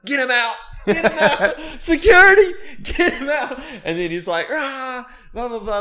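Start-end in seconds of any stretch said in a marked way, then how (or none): 0.0-3.6 loud, high mock-furious orders; imitated outburst, pitched way up; retold rage. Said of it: "had a rage". 4.5-5.8 high-pitched mock ranting; hammed-up angry babble; retold rage. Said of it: "had a rage".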